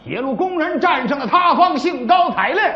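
storyteller narration. Acted. Storyteller spins a celebration scene.

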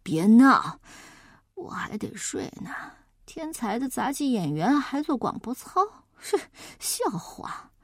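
muffled sleepy whisper; into a pillow. Acted. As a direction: mumble with head under pillow. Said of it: "把头钻到枕头底下".

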